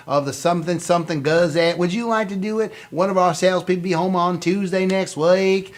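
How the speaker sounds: hammed-up Southern phone-sales voice; bad Southern accent. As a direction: put on a fake down-south accent. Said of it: "not everybody down south sounds like that".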